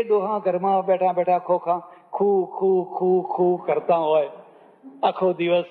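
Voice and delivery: a mock old man's coughing 'ખુ ખુ ખુ', lightly voiced. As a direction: mimic the old father-in-law hacking away. Girl mocks coughing old in-laws. (ખાંસતા ડોહાની હળવી નકલ)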